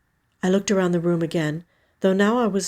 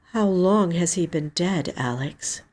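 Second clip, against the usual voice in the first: suspicious. Acted. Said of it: "My tone made my suspicions clear".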